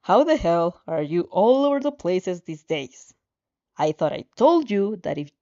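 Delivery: loud, irritated tirade; loud angry scolding of the girl he warned off; angry rant. Acted. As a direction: chew her out like she crossed a line. Katsuki angrily confronts the reader.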